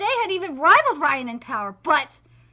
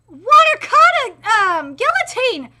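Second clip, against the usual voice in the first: slow, louder move name; attack call; 5 semitones higher, 10 dB louder, slower than usual. Acted. Fighter calls out his kata, hammy. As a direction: announce the kata. Calling out technique.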